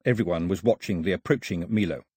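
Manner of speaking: plain reading voice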